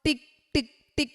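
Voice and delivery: quick tick tick tick; ticking watch. Shown as a demonstration. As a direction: imitate a watch ticking fast. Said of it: "watch sound demo". (വാച്ചിന്റെ ടിക് ശബ്ദം വേഗത്തിൽ)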